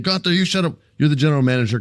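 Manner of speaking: high, whiny mock manager voice; mocking Adam Pearce. Host mocks the weak manager yelling at Gunther, high whiny voice. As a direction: squeak it out like a powerless boss. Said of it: "He's saying".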